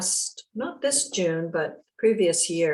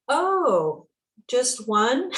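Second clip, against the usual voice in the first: high, louder "oh, just one?" in mock dismay; a surprised letdown, pitched up; 5 semitones higher, 3 dB louder, much slower than usual. Disappointed at half the ring.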